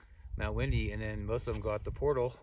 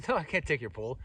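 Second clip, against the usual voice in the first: mildly raised, mock protest; protesting refusal; 4 semitones higher, 4 dB louder than usual. Narrator to hiker handing him a pole, protesting refusal. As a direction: turn down a generous gift, pitched up a little.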